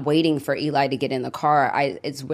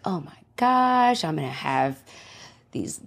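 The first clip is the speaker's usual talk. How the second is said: much higher, giddy imagined thoughts; excited daydream; 5 semitones higher than usual. Retold or imitated. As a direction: gush over the dream house plans. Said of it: "I remember looking at this house and thinking".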